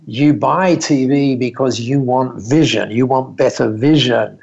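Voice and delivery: slow, careful retold Japanese-accented English; lightly imitated Japanese accent, measured pace. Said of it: "in this lovely Japanese accent".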